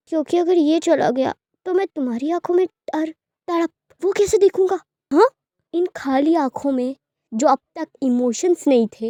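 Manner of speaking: manic gloating. Acted. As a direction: relish every word of his pain. Villain gloats, refuses release. (ज़ोरदार, ऊँची आवाज़ में पागलपन भरा ताना)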